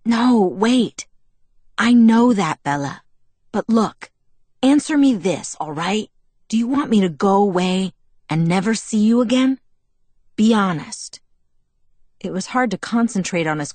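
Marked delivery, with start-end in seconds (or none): 0.0-11.2 put-on louder, pressing young man; urgent plea. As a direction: hold her there, insist. Jacob pleading voiced louder.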